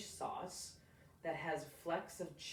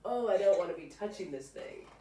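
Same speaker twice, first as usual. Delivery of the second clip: louder mock disgust; playful imitation of a squeamish boy, louder; grossed-out kid; 3 semitones higher, 9 dB louder than usual. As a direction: squirm at the slimy fish. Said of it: "He's like".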